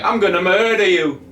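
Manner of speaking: badly faked Irish accent, voice pushed up. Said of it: "in an Irish accent".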